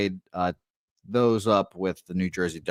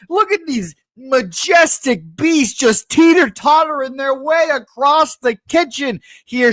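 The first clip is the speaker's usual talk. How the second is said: nature documentary; 7 dB louder than usual. Acted. Calls food as majestic beasts.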